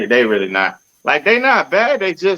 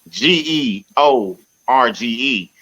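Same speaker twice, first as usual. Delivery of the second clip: spelled out. Shown as a demonstration. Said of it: "when your name is spelled".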